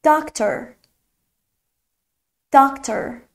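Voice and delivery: Doctor with a long "aa" in the first syllable; Doctor said singly, open drawn-out "aa"; long vowel. Shown as a demonstration. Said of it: "آی کشیده".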